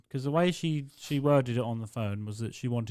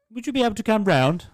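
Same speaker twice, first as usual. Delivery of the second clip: put-on old lady voice; 11 semitones higher, 8 dB louder than usual. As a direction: drag it out like a confused old dear. Customer voiced.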